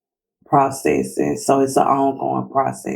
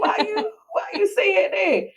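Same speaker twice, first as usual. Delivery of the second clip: mock high surprised question; 4 dB quieter than usual. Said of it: "And I was like".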